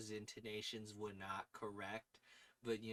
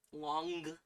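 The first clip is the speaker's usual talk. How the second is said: stereotypical New York long; 3 semitones higher, 4 dB louder than usual. Shown as a demonstration. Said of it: "the very stereotypical".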